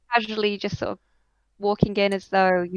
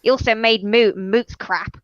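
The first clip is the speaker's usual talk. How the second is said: gushing eccentric butcher. Acted. GM voices gushing butcher NPC.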